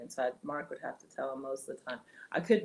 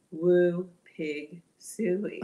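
retold call; 3 semitones higher, 7 dB louder, much slower than usual. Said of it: "I want you to say".

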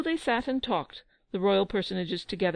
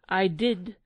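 crying out; 2 semitones higher, 4 dB louder than usual. Acted. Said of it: "Giglio cried".

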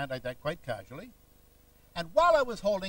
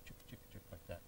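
whispered chick chick chick call; calling chickens; 11 semitones lower, 23 dB quieter, faster than usual. Shown as a demonstration. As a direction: coax it like calling hens.

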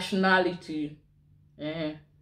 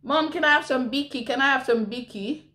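higher-pitched imitation of a pleading child; child calling out; 5 semitones higher than usual. Child asking Mom for a biscuit, imitated high-pitched calling. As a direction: lightly mimic a kid pestering Mom. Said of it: "a baby shouting".

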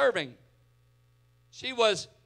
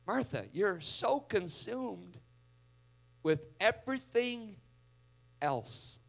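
soft, slow gentle rebuke; quietly name what consumes her; 6 dB quieter than usual. Retold or imitated. Jesus gently correcting Martha, soft and slow. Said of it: "not what she heard".

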